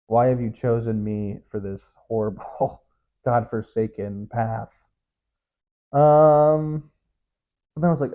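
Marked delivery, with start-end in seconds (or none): 0.1-4.7 slow, low, melodramatic plea to God; mock anguished plea. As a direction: lament it slowly, hammed-up self-pity. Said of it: "So you're like, "God".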